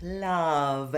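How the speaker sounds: "Love" with bottom lip tucked under top teeth for the V. Shown as a demonstration. Coach shows lip position for V in love. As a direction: tuck the lip and buzz "Love". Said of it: "bottom lip under your top row of teeth".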